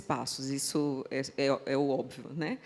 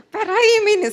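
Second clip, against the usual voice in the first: mock hushed scold; 11 dB louder than usual. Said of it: "Aí ela fazia assim".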